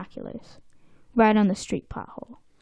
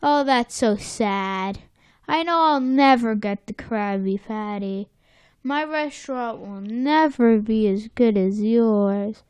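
mock self-pity; slower than usual. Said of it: "Plankton's just".

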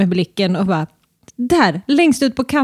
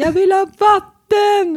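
put-on high child's whine for water; imitating child whining; 10 semitones higher than usual. Child demanding water, mimicked.

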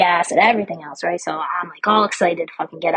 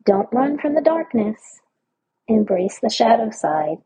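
reading the card; 3 semitones higher than usual. Shown as a demonstration. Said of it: "and it says".

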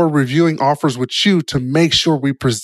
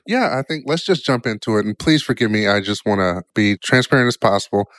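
nasal voice; 2 semitones lower than usual. Real, not acted. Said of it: "if I sound a little nasally".

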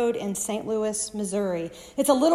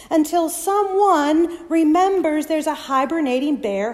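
rising intensity; 5 semitones higher, 7 dB louder than usual. Shown as a demonstration. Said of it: "build of storm".

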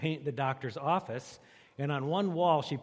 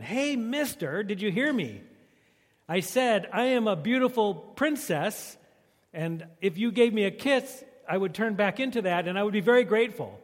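frog voice; 5 semitones higher, 4 dB louder than usual. Acted. Frog repeats its plea.

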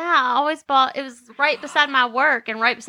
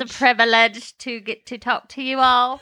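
put-on light Cockney accent; a hint of Cockney; 2 semitones lower than usual. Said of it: "Cockney, Susie".

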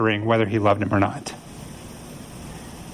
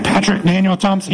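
mock parental summons, pitched up; lightly voiced parent calling out a child in trouble; parent using full name; 5 semitones higher than usual. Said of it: "call your kids by the middle name".

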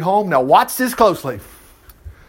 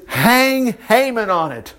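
royal order; 3 semitones higher, slower than usual. Acted. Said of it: "The king ordered".

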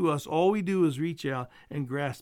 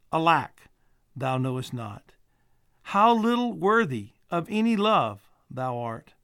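put-on slow, weighty recitation of an old poem; poem reading; 3 dB louder than usual. Pastor reading a poem to his congregation, slow and solemn. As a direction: let each line land with solemn pauses.

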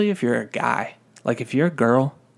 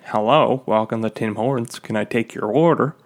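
lightly voiced drive-thru order-taker; mock customer-service greeting, a little louder; drive-thru greeter; 3 dB louder than usual. Worker greeting a drive-thru customer over and over, lightly put-on service voice. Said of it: "answering the drive-thru".

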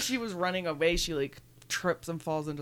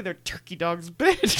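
sassy; 4 dB louder, slower than usual. Pretend. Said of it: "I want him to say".

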